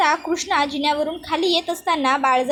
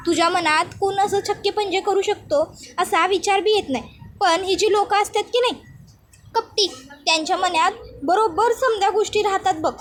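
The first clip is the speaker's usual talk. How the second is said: higher-pitched village woman, mock concern then reproach; lightly voiced scheming accuser; 3 semitones higher than usual. Anusaya blaming Balja in front of Krishna, insinuating. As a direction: lightly play a schemer feigning protectiveness.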